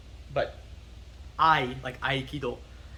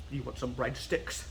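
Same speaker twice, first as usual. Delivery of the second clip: John Danaher; 6 dB quieter than usual. Acted. Teacher jokingly mimicking a famous coach, rough accent impression. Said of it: "I can't mimic John Danaher".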